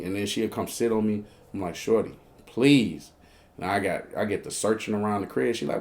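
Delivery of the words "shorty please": slow, drawn-out plea; retold begging, words stretched; weary pleading. Man to woman sitting on him, weary pleading. Begs her to stop.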